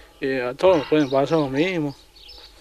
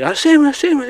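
much higher, louder mock of the cop; a hammed-up policeman yelling his demand; mimicking the cop; 11 semitones higher, 6 dB louder than usual. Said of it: "Así, así me decía el tipo".

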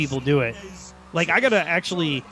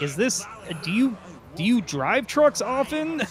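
mock doubtful question; 5 semitones higher than usual. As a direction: ask it like you doubt she can drive. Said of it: "It's like".

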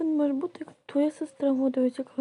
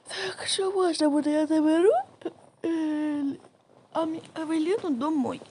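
tearful plea. Pretend. Mother doll crying, claiming daughter.

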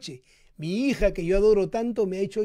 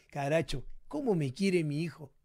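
touched father musing; 4 semitones lower, 5 dB quieter than usual. Retold or imitated.

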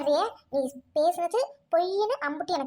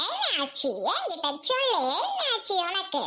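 concerned friend. Acted. Friend asks what is wrong. (அக்கறையோடு கேட்கும் தோழி)

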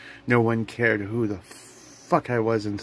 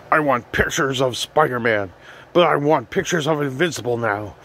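J. Jonah Jameson; 4 semitones higher than usual. Retold or imitated. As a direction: bark orders like a gruff editor. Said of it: "I hear J. Jonah Jameson here".

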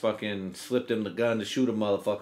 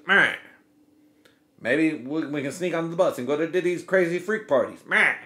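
imagined eager guy; 4 semitones higher, 3 dB louder than usual. Retold or imitated. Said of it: "I can hear it".

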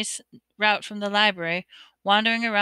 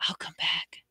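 breathless whisper, softer; 3 semitones lower, 8 dB quieter than usual. A narrator's reading. Harry promising his mother's reflection, whispered. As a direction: barely breathe it, a secret promise. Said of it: "and whispered".

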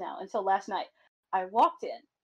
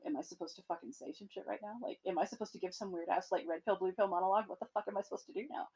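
flustered inner muttering; 5 dB quieter, faster than usual. Retold or imitated. Retells awkward inner panic.

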